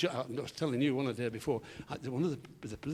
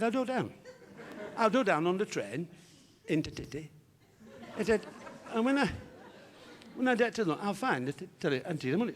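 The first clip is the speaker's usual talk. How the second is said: higher, comic speech defect with t and d for k and g; tongue-tied impeded diction; Harry; 4 semitones higher than usual. Acted. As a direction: tumble through it with fronted consonants. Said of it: "a slight speech defect".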